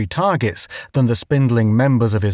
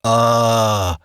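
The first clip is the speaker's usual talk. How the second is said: howl. A narrator's reading. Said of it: "howled the native".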